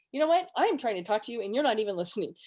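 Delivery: quick, mildly exasperated complaint; triggered. Acted. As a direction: rattle it off as a mock triggered retort. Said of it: "When we're triggered like that".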